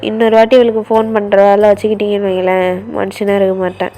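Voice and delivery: low, loud telling-off; angry brother on the phone. Acted. Brother scolding his sister's friends over the phone, low and angry. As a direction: warn the friends off, fast and firm.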